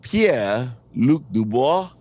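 grand intro, long pause before a slow "Pierre-Luc Dubois"; drawn-out introduction. Shown as a demonstration. Acting the player introducing himself on video, name drawn out. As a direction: stretch "Pierre-Luc Dubois" to half speed, rising at the end. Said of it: "you gotta draw that out".

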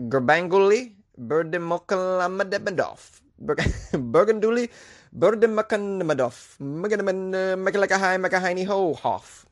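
slow halting try at "Gurbanguly Berdimuhammedov", giving up in mangled syllables; laughing, botched run at "Berdimuhammedov"; struggling pronunciation. Real, not acted. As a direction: stumble through "Berdimuhammedov" slowly, then mangle it on purpose. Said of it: "I cannot say this".

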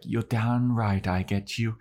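slightly high put-on voice; lightly voiced vampire seductress; affected, theatrical promise; Drusilla impression. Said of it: "And she's like".

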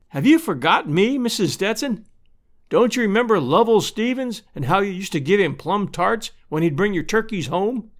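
lightly voiced Lovell, eager to be remembered; friendly returning neighbour. Lovell greets old neighbour.

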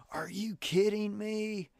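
high, drawn-out disbelief; son's amazed reaction. Retold or imitated. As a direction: act out a stunned kid. Son reacting to huge Lego kit.

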